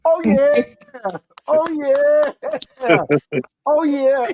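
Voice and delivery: hyped exclamation. Acted. Hype after show intro.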